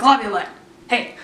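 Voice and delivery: mock call to a coach; exaggerated calling out. Fan calls to the coach on the carpet, exaggerated. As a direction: call the name out, hammed-up. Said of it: "Not quite like that".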